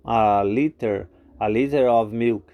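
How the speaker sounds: very slow, drawn-out model sentence; slow teacher model; slow demo. Shown as a demonstration. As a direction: stretch I want a liter of milk for learners. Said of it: "I want", want é o verbo querer".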